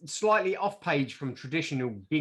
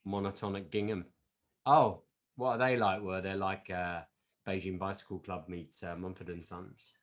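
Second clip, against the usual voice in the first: much softer, lower, offhand; aloof hipster answer; 5 semitones lower, 4 dB quieter than usual. Pretend. Hipster naming an obscure band, softly aloof. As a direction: play it too cool to care. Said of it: "always went to the independent record stores".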